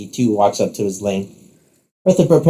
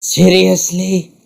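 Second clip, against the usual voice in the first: higher, drawn-out theatrical disbelief; exasperated disbelief; 8 semitones higher, much slower than usual. Acted. Rook answers the rival's jab at his outfit, exasperated. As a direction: stretch it out, high and indignant. Frustrated Rook, insulted over pink.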